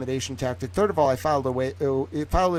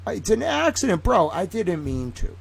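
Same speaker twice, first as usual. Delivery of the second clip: mock apology; 5 semitones higher than usual. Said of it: "And then".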